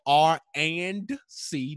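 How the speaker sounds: "and" said as a full, separate word; stress on and. Real, not acted. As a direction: spell it out with a clear "and". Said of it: "not to be mistaken with R N C".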